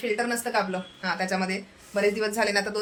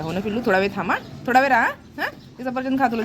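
pet-coaxing voice; 3 semitones higher than usual. Real, not acted. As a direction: sweet-talk a fidgety pet into waiting a moment.

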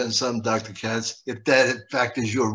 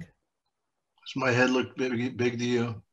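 imitating a cousin; 4 dB quieter, much slower than usual. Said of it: "He would say stuff like that".

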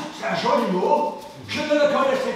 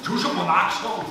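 low, aggrieved grumble; weary grumble; 5 semitones lower than usual. Acted. Man answering criticism of his accent, weary grumble. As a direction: grumble it lower, tired of the criticism.

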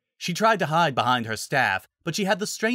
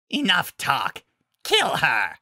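higher, forceful monster order; fierce beastly command, raised pitch; commanding werewolf alpha; 5 semitones higher, 3 dB louder, slower than usual. Acted. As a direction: order the pack to attack.

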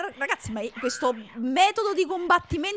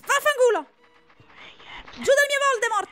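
high, loud furious yells; angry yelling; 8 semitones higher, 4 dB louder, faster than usual. Real, not acted. Gamer yells at creatures grabbing his pet, furious. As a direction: shout them off your pet.

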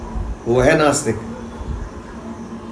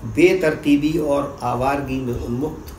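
measured poem reading with pauses between phrases; spoken verse for listeners; poetry recitation; 2 semitones lower, 7 dB quieter than usual. Acted. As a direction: recite it line by line, letting each phrase settle.

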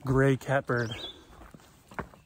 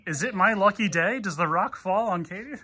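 laughing mock drama; 6 semitones higher than usual. Joking spooky narrator voice.

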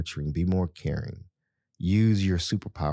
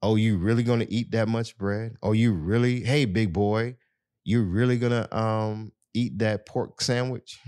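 mock teasing; 3 semitones higher than usual. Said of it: "they tease their loved ones".

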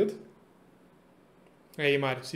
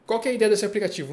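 normal talking voice

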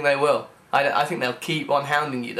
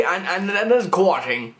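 put-on voice; 3 semitones higher than usual. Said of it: "I don't know why I'm talking like this".

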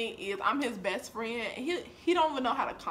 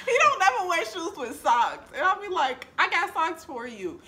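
exasperated; 8 semitones higher, 6 dB louder, slower than usual. Real, not acted. Exasperated complaint about socks.

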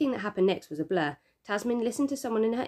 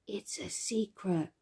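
secret whisper; 3 semitones higher, 7 dB quieter, much slower than usual. A narrator's reading. Toddler whispers into the mic.

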